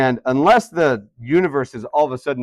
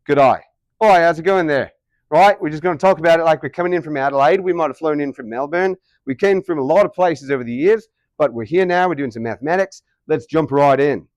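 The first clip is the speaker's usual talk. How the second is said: broad, lively Australian, pitched up; Australian accent; 3 semitones higher, 4 dB louder than usual. Shown as a demonstration. Teacher demonstrating to class how Aussies say good day, in Australian accent. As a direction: put on a chirpy Aussie accent. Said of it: "Can you guys do an Australian accent?".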